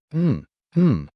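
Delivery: high muffled cry through a gag; gagged muffled scream. A narrator's reading. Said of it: "The Aragarian screamed in pain".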